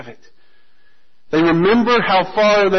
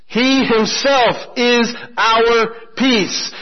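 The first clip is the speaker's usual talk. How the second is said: slow repeated emphasis; 4 semitones higher, much slower than usual. Shown as a demonstration. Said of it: "Look at verse fourteen".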